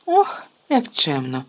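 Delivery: slow, huffy sarcastic retort; offended sarcasm. Acted. Sister offended at being sent out, slow huffy sarcasm. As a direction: take offence, drawl it sarcastically. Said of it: "образилася Джинні".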